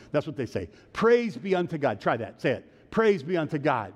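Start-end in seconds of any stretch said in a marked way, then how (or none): 0.9-2.0 lightly intoned liturgical response; mock Episcopalian liturgy. Shown as a demonstration. Preacher teaching congregation a liturgy, lightly mock-Episcopalian. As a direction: recite it as a churchgoer's set response. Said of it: "Pretend you're Episcopalian".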